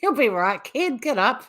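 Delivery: lightly imitating an Australian dad; slightly hammed Australian dad. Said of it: "The dad's very Australian".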